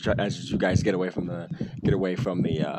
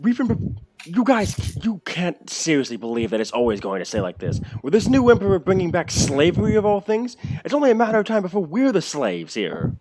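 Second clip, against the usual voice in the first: orc speech; 8 semitones higher than usual. Acted. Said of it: "He simply says".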